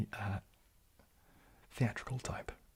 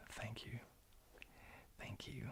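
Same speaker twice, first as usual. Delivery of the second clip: very soft, murmured thanks; hushed thanks; 18 dB quieter than usual. Real, not acted. Streamer answering a compliment on the accent, hushed. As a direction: say it softly, almost to yourself.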